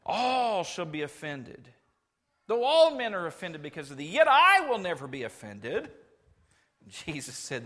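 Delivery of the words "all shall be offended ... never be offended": Peter brags he'll never fall away; boastful Peter. Acted. Peter vowing loyalty to Jesus in a loud boast.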